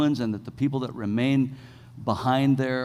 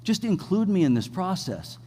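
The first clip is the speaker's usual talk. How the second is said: God's reassuring voice; 5 semitones higher than usual. Retold or imitated. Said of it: "God's saying".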